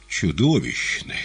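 blunt, slow honest answer; bold frank verdict. A narrator's reading. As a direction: say it boldly. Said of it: "смело и откровенно".

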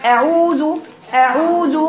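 "أعوذ" neither spread nor heavy, vowels sustained; oval-lipped fatha. Shown as a demonstration. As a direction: form a balanced oval mouth and hold "أعوذ". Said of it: "بتبقى عاملة الجزء كده بيضاوي كده".

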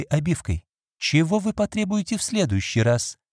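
a hint of a reproachful mistress listing losses; Lady Audley. Lady Audley rebukes Phoebe over her jewels, mildly indignant.

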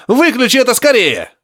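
high urgent cry from a speaker; professor on the radio. A narrator's reading. Professor begging to switch it off, high voice. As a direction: plead through the radio.

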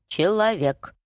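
раздельное, загадочное птичье слово; произнеси как таинственный голос над головой; таинственный голос ворона. A narrator's reading. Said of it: "послышался тихий шелест и голос". (голос говорящей птицы)

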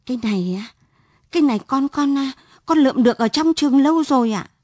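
a nervous son fumbling a lie; stammering fear. Acted. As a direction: caught out, stumbling over excuses. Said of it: "ấp úng".

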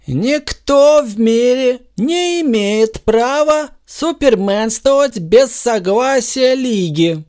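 slow, high, firm pronouncement; a touch of stern decree; firmly. A narrator's reading. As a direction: lay down the law. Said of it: "твёрдо сказал Супермен".

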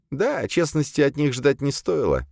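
high-pitched female servant voice; servant demoness confessing. A narrator's reading. Tense servant admits her killings to exorcist, high voice. Azalia's voice in story.

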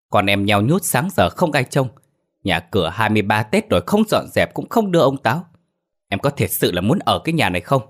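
restrained anger. Acted. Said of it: "Thuận đang rất tức giận nhưng kìm lại".

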